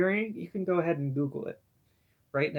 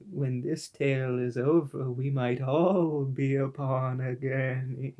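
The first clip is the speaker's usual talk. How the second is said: slow, louder ominous line; 3 dB louder than usual. Acted. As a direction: deliver it like a curse. Ominous quoted closing line.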